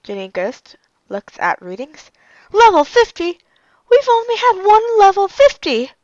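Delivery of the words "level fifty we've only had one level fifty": shocked disbelief. Acted. Shocked by ghost readings.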